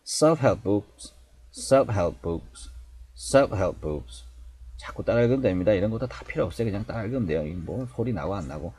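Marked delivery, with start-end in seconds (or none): 0.0-4.2 "self-help books" with F and P hardly released; swallowed F and P. Shown as a demonstration. Teacher drills learners by repetition, "self-help books" with faint F and P. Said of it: "F는 거의 발음이 안 되고 P도 거의".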